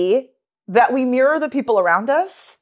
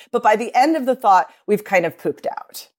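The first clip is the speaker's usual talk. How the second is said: running out of breath into fry. Shown as a demonstration. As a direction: demonstrate breath support fading by the last words. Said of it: "See what just happened there?".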